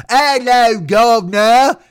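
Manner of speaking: high, loud, hammed-up British accent; badly faked British greeting, belted out high. Improv hopeful proving he can do it, terrible British accent. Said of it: "a British accent".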